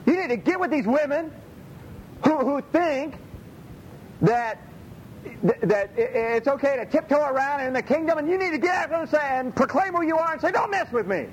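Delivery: high, rousing preacher's charge to his wife; rally her to stand her ground, voice up high; fired-up exhortation. Retold or imitated. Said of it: "And then I said".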